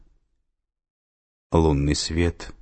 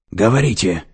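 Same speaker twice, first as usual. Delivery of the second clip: louder barked command; barking; 4 semitones higher, 6 dB louder than usual. A narrator's reading. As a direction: bark it into the phone. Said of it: "рявкнула она в трубку".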